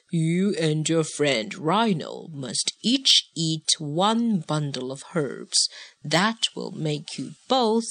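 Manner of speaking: a hint of a calm old wise man; wise old sage. Narrator voices wise old man.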